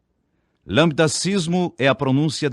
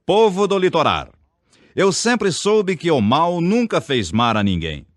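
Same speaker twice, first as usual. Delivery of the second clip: rally orator; 9 semitones higher than usual. Retold or imitated. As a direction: belt it like a politician at a rally. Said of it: "candidato ... num comício".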